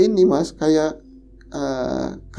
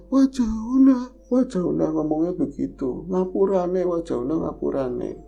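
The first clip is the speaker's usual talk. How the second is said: ghost pleading for forgiveness; 2 semitones higher than usual. Retold or imitated. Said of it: "katanya minta maaf".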